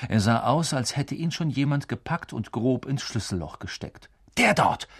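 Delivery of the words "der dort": high excited call. A narrator's reading. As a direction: call it out to the others. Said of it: "rief er den anderen zu". (laut gerufen)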